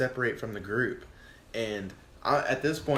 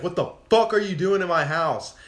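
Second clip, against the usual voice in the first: loud, high imitation of an angry homeowner; mock outraged shout; retold yell; 7 semitones higher, 9 dB louder than usual. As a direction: yell it as the furious homeowner in your story. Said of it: "this guy just, like, yells".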